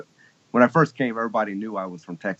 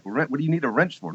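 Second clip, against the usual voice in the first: puzzled listener; 6 semitones higher than usual. Retold or imitated. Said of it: "And like".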